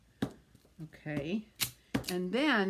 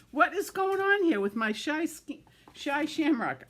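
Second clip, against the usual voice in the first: higher, tripping over Shy Shamrock; tongue-tied giggle; 8 semitones higher, 3 dB louder than usual. Real, not acted. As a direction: laugh at your own tongue. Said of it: "I can't say that a number of times without getting silly".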